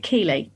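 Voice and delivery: Keighley with silent gh, "Kee-lee"; mispronounced Keighley. Shown as a demonstration. Host admits being told off, saying Keighley as Kee-lee. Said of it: "got told off by Sarah for calling it Keighley".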